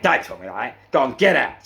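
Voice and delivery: loud angry order to get out; angry shout. Retold or imitated. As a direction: bark it like a furious guard. Guy yelling at him.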